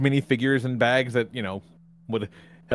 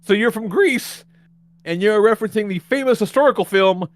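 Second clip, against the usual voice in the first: drip with sarcasm; sarcastic realization; 6 semitones higher, 4 dB louder than usual. Retold or imitated. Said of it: "And I'm like".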